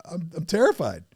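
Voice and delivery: high, loud panicky protest; playful mock panic about meeting a hero; mock terrified fanboy. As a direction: squeal like a starstruck fan begging off.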